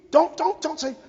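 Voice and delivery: high, loud, stammered cut-in; urgent protest. Real, not acted. Parent cutting off officials' excuses, urgent loud protest. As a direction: burst in loudly to forbid the excuse.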